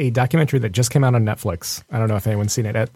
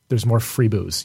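ordinary talk

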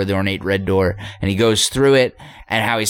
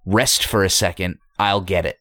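calm voice; 2 semitones lower than usual. Retold or imitated. The mysterious voice calmly reassuring Jack, a touch of calm. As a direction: soothe him, no rush. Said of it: "the voice says calmly".

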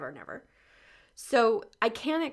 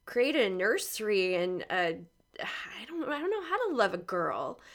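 close to tears; 4 dB louder, slower than usual. Real, not acted. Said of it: "tears in my eyes as I'm talking".

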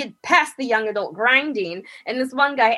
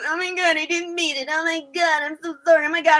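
flustered apology; 5 semitones higher, faster than usual. Retold or imitated. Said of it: "And he just goes".

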